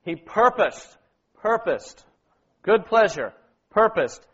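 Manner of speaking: firm punch on "purposed" and "good pleasure"; emphasized words. Shown as a demonstration. Leader showing sisters the words to emphasize, stressing "purposed". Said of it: "And emphasize".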